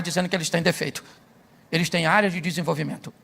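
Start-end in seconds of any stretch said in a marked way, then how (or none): 1.7-3.1 soft rephrase. Shown as a demonstration. Preacher showing the congregation a gentler phrase, soft and low. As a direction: lower and softer, gently renaming the flaw. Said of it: "Olha como é que fica suave".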